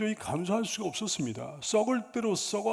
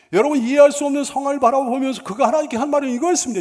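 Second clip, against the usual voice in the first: higher, louder and fast, driving it home; preaching louder; 5 semitones higher, 9 dB louder, faster than usual. Shown as a demonstration. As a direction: repeat it with full preaching force. Sermon line repeated with force. (힘주어 크게 빠르게 다시 외치듯)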